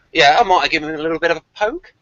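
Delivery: a half-hearted Aussie impression of the actor; Australian accent. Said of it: "my Australian accent went rubbish then".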